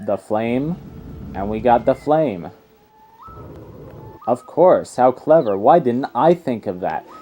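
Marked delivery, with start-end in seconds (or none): 4.3-7.1 1 mock sarcastic character. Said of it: "'Cause you're not the protagonist".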